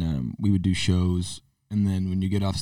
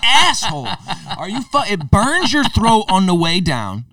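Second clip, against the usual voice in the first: loud, high comic exasperation; incredulous, drawn-out indignation with raised pitch; outraged rant; 10 semitones higher, 6 dB louder, slower than usual. Acted. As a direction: call out the liar at full volume. Rants at people pretending liquor tastes great.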